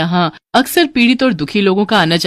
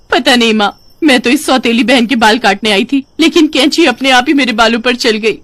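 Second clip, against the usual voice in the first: higher, louder distressed daughter's whine; whining complaint; 5 semitones higher, 4 dB louder than usual. Acted. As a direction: bewail the backfired plan to mother. Bald girl complains to mother. (रुआँसी शिकायत)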